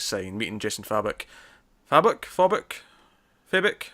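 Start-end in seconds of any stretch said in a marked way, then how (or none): 1.9-2.2 questioning "Fabok" with a short flat a, FAB-uck; trying out pronunciation. Shown as a demonstration. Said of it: "Fabok or Fabok". 2.2-2.7 "Fabok" said as FAW-buck, pitched up; trying out pronunciation. Shown as a demonstration. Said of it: "Fabok or Fabok". 3.5-3.8 "Fabok" said as FAY-bick, pitched up; trying out pronunciation. Shown as a demonstration. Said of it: "Fabok or Fabok".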